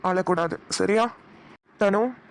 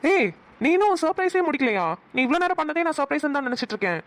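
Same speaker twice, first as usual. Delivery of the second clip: amazed disbelief; 6 semitones higher than usual. Acted. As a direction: voice jumps high in surprise. Learns the surprise is not over.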